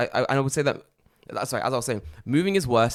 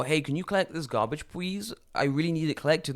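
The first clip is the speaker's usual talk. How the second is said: politely pleading, pitched up; mock pleading; 4 semitones higher, 4 dB quieter than usual. Caller begging the garbage company for a pickup, mock pleading. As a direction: plead softly, lifting high on the please.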